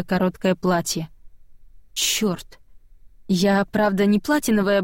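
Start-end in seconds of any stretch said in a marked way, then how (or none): 1.9-2.6 whispered curse. Acted. Narrator curses under breath.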